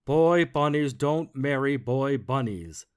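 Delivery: slow, loud, stern bug voice; stern stink bug. Acted. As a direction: lay down the rule slowly. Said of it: "said the stink bug".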